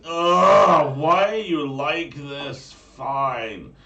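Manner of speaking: put-on loud, high exasperated Valley Girl groan; Valley Girl accent. Mermaid grudgingly answers the hero's call in a Valley Girl accent. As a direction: sigh like a fed-up teen giving in. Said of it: "I will always hear her going".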